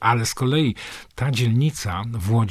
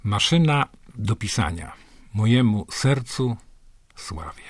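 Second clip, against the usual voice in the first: poem reading. Acted. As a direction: announce the poem's title with care. Reads poem title and dedication.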